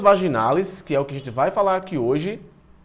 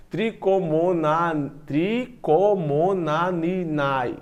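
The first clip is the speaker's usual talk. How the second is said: very slow, syllable-by-syllable attempt; stumbling pronunciation; much slower than usual. Real, not acted. Teacher retrying a name that won't come out, halting. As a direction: restart and labour through each syllable. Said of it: "Eu sou gago".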